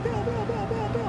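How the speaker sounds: put-on high-pitched, squealing little kid fan. Kid fan begging Bill to sign, high squeal. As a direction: gush like an overexcited kid begging for an autograph. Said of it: "Eleven years old".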